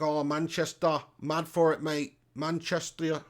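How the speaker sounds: attempted Manchester accent; Manc accent. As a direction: have a half-hearted go at a Manc accent. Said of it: "I'm shit at the Manc accent".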